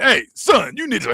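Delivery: going off. Retold or imitated. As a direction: imitate a recruiter laying into a kid. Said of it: "he going off on him".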